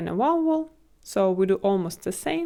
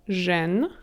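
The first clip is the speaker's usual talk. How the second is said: Жен-щи-на with long pauses between the three parts; syllable by syllable. Shown as a demonstration. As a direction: close Жен on н, then щи, then на, each alone. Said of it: "Let's practice this".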